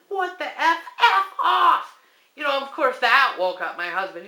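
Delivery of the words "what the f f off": high, loud mock yell of F off; furious outburst at a ghostly intruder; angry. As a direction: snap it at the intruder. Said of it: "And I said".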